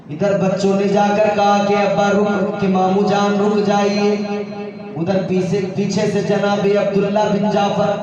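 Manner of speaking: measured, sustained recitation; intoned sermon narration. Real, not acted. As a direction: carry the story on one steady, sung-like note. (सुर में ठहरा हुआ मजलिसी बयान)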